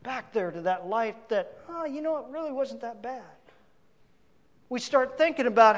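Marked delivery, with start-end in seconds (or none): 1.7-3.2 soft, quick murmur to oneself; offhand rationalizing. Acted. Preacher voices a believer tempted to go back, quietly rationalizing. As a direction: play it down quietly, as a passing thought.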